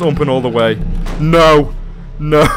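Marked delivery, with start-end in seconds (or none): 1.2-2.5 panicked no. Real, not acted. Horror game monster approaching.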